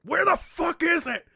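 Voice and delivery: high, exasperated yelp; comic high-pitched exasperation; exasperated outburst. Acted. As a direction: demand it at the end of your rope. Exasperated rant acted out.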